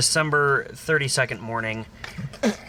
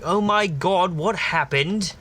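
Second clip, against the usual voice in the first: mock alarmed hospital staff; 5 semitones higher, slower than usual. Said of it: "They're like".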